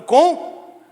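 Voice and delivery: high, loud, very slow shout; loud praise. Shown as a demonstration. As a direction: cry it out stretched and full. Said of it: "louvando com alegria e alta voz".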